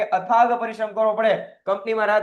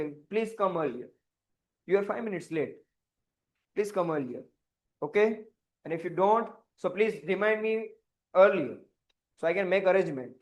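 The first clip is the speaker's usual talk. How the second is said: quiet, slow, formal office English; lightly voiced polite manager; official manager; 3 semitones lower, 4 dB quieter, much slower than usual. Shown as a demonstration. Boss speaks formally to a late employee, quiet and measured. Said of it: "official language".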